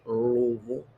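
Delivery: "Louisville" squashed into "Luh-vul"; swallowed Louisville. Shown as a demonstration. Showing you don't pronounce all of it, swallowed Louisville. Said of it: "don't pronounce all the words".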